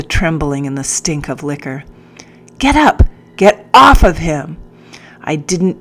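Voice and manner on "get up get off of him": high, loud tantrum scream; shrill hysterical command; hysterical shout. Acted. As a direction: shriek it like a boy in a tantrum. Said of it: "The voice was high, hysterical".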